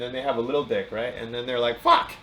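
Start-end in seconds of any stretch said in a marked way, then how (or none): 1.8-2.1 high, loud comic curse; mock dismay. Acting out a man let down by his own stereotype, mock dismay. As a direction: blurt it out in pitched-up frustration.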